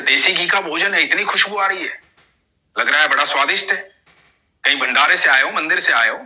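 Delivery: put-on a boy warning the old man to stop; young boy. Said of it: "बोले".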